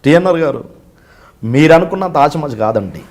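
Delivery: lightly imitated film actor, measured warning; spaced-out phrases, a hint of menace; Prakash Raj. Officer warns interviewer about arresting a minister, lightly imitated. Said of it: "అది ఎలా ఉంటుంది అంటే ఇప్పుడు ప్రకాష్ రాజ్ గారిది".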